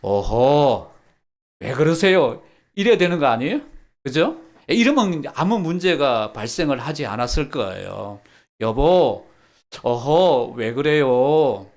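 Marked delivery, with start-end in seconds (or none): 0.0-2.4 어허 왜 그러세요 said louder and firm; loud, confident rebuke; firm gentle check. Shown as a demonstration. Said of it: "여러분 같으면 어떻게 하시겠어요?". 8.6-11.7 왜 그래요 drawn out slow and loud; louder, slow loving rebuke. Shown as a demonstration. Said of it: "아내 얼굴 보면서 한번".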